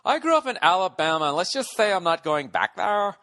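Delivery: hammed-up gay accent, edging into Valley Girl; stereotypical gay accent. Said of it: "with my stereotypical gay accent".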